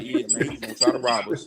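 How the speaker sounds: low, unbothered, matter-of-fact New York cool; too calm. Retold or imitated. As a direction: shrug it off completely. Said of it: "you said that too calm".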